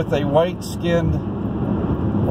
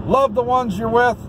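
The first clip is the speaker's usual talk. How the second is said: higher, hammed-up sign-off warning; playful mock threat; 8 semitones higher than usual. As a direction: tease them with a fake threat.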